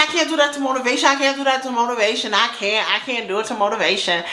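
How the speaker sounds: repetitive, hurried pleading; flustered protest. Retold or imitated. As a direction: rush it out in repeated protest, then ease down. Acted protest to a friend.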